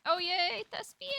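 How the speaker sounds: high, delighted call of a name; light up as you call his name; excited greeting. Real, not acted. Greeting a friend who appears.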